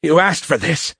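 high, mild bellow. A narrator's reading. Cadet aims as the warrior closes in, bellowing. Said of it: "Biff bellowed".

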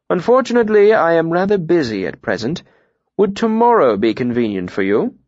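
high-pitched lordly mayor, politely dismissive; busy mayor. Acted. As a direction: play the mayor putting off a visitor. Mayor voiced in dialogue.

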